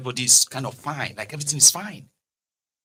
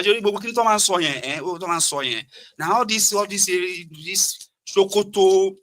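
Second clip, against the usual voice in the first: higher, louder breezy Lagos friend; carefree Lagos voice; 5 semitones higher, 3 dB louder than usual. Retold or imitated. Lagos friend dismissing the news, breezy carefree voice. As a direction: brush it off like nothing's wrong. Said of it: "And they say".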